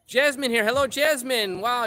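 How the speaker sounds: high, loud happy hello; light up as you greet her; delighted shout-out to a viewer; excited greeting. Real, not acted.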